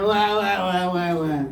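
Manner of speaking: mock baby wailing, wah wah; a light imitation of a crying infant; imitating baby cries. Teacher imitating babies crying for their mother, mock wailing. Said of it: "They said".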